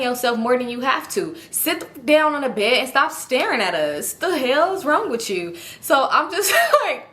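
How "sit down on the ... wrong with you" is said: drawn-out contemptuous telling off; slow it down and sneer at her; slow scornful scold. Retold or imitated. To the girl staring through the window: slow scornful scold.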